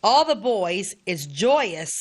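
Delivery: deliberate reading, with pauses between sentences; letter reading. Acted. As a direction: read an old letter aloud phrase by phrase. Reads soldier's letter aloud.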